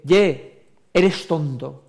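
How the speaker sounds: loud, hard "Ye" then a flat "eres tonto"; curt scolding jab; blunt insult. Shown as a demonstration. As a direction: say it like you mean it as an insult. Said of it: "No es lo mismo".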